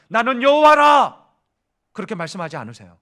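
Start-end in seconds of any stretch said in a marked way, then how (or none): 0.1-1.2 slow, loud solemn proclamation; God's declaration. Acted. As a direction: declare it slowly with full weight. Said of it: "결코 이방인들한테는". (하나님이 이스라엘에게 천천히 크게 선포하듯)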